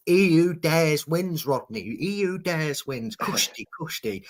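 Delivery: Del Boy impression. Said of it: "as Del Boy once says".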